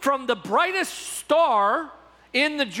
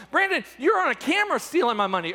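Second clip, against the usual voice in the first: fast, higher-pitched pretend exasperation; exasperated mock accusation; 4 semitones higher, faster than usual. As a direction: rattle off the charge impatiently. Acted quarrel, pastor presents proof.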